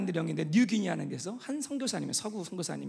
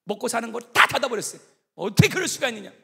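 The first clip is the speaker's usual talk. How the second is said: retold fury; 6 dB louder than usual. Missionary shuts the village stores, angry. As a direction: start contained, end in a mock furious cry. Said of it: "너무 화가 나갖고 어떠냐면".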